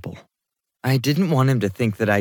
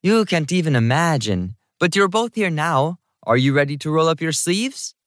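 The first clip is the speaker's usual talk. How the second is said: put-on high-energy woman, higher Jamaican-accented voice; higher pitch, slight Jamaican accent; 7 semitones higher than usual. A narrator's reading. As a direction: introduce yourself briskly with a light Jamaican lilt. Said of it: "said in a slight Jamaican accent".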